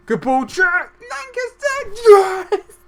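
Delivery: very high, drawn-out scream; ecstatic goal shout. Real, not acted. Commentator celebrating Jack Lancaster's goal, ecstatic high scream. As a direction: scream the scorer's name into a huge yes.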